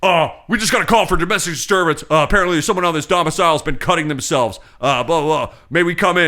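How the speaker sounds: fast, offhand officer routine; cop voice. Retold or imitated. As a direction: rattle it off like a bored cop. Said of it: "he goes".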